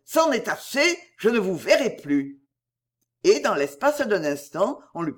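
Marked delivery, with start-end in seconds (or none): 0.0-2.4 rejected poet leaving her forever, despairing; despairing cry. Acted. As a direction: fling it out in despair. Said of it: "s'écria-t-il".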